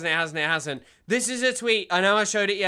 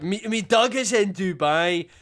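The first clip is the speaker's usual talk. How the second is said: mock Newcastle accent. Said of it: "loaner box be like".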